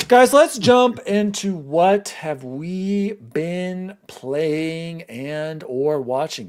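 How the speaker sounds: very slow, drawn-out segment intro; segment announcer. Acted. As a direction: stretch each word of the segment title. Host introduces the next segment.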